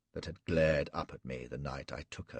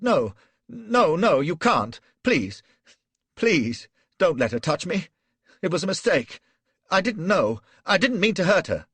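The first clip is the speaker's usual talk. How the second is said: very high, loud desperate begging; panicked pleading yell; 14 semitones higher, 12 dB louder than usual. A narrator's reading. Flashman begging Gul not to let her touch him, high and loud. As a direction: shriek and plead for mercy. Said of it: "I yelled and pleaded".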